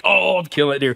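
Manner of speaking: pumped, quoted "Oh, I'm killing that deer" with a jump on "Oh"; suddenly fired up about the deer; excited realization. Retold or imitated. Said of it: "it went from, like".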